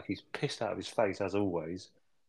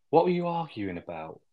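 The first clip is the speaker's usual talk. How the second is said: asked high and a bit louder, prying; pry into the row, pitched up; nosy question; 6 semitones higher, 5 dB louder than usual. Retold or imitated. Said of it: "she's like".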